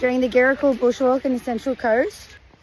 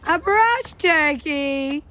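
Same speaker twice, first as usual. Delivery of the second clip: slow clear repeat; much slower than usual. Shown as a demonstration. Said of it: "repeats child's answer slowly".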